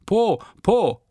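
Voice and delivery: high, punchy calling out; excited shout. A narrator's reading. Boy hopping in yard shouts up at window. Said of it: "winkte, hüpfte und schrie".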